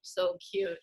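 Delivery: whispered aside; quiet endearment; soft aside. Real, not acted. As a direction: whisper it fondly.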